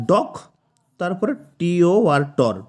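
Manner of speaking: ডক and টর each said separately; syllable by syllable. Shown as a demonstration. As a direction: split into ডক, then টর, with pauses. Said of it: "তাহলে দুটো syllable হলো".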